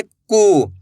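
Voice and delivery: कू held long with a full oo; stretched, sustained कू; drawn-out vowel. Shown as a demonstration. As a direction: draw out the vowel in कू. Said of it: "खींच के पढ़ा जाता है".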